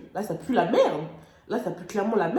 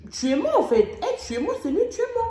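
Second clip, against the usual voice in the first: dramatic despair; 11 semitones higher, 3 dB louder than usual. Retold or imitated. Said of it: "dans ma tête, c'était tuez-moi".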